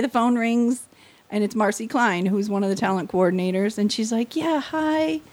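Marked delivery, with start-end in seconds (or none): 4.4-5.2 high, drawn-out condolence tone; mock-sympathetic, pitched-up greeting; pity-you voice. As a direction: imitate someone about to break bad news. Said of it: "pity you voice".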